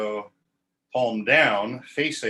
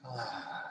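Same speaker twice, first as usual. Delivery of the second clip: collapsing sigh; 15 dB quieter than usual. Shown as a demonstration. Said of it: "let our inside collapse".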